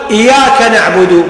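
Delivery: single Y in إياك, slowly; eased, undoubled ya. Shown as a demonstration. Teacher shows some imams' slip, undoubled Y in إياك. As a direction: say إياك without doubling the Y. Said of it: "يمشون بالتسهيل".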